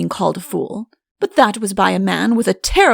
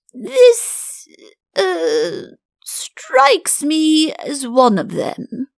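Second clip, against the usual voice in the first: much higher, slow, anxious pleading; squirming flattery; 8 semitones higher, 3 dB louder, slower than usual. A narrator's reading. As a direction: wriggle out of it nervously. Chancellor squirming, evasive flattery.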